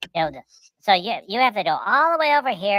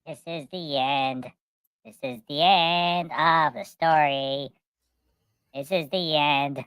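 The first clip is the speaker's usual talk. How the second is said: slow, low ominous announcer; slow doom-laden narrator closing the story; dramatic ending; 3 semitones lower, slower than usual. Pretend. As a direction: intone the ending with mock gravity.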